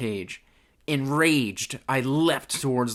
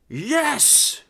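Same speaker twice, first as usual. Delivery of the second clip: high, loud yes; emphatic affirmation; 5 dB louder than usual. Acted. Burly invader confirming to Mary Ann, loudly emphatic. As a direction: affirm it with full force. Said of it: "affirmed the man".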